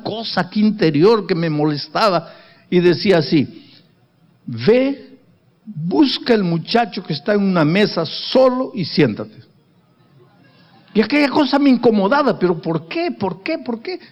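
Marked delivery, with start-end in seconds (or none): 4.5-12.6 a hint of a higher young woman's voice, rising as she goes; woman's voice, lightly voiced. Wife telling how she came to sit with him, lightly voiced higher. 12.6-14.0 fading questions. Acted. Repeated question fading away.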